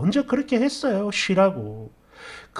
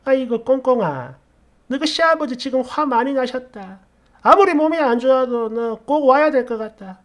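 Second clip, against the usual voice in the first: lightly voiced coaxing mother-in-law, slightly raised pitch; 3 semitones higher than usual. Mother-in-law urging daughter-in-law to come, lightly acted coaxing. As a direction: coax her as a mother-in-law would. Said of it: "시어머니도 바로 전화를 하더니".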